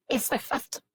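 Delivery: muffled behind hands; talking through hands over face. Real, not acted. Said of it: "I just have my hands over my face".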